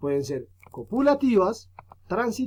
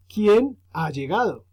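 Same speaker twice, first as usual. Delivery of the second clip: slow demo question, louder; question intonation; 3 semitones higher, 4 dB louder, slower than usual. Shown as a demonstration. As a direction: stress on quién, read slowly as a real question. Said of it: "si es un pronombre interrogativo".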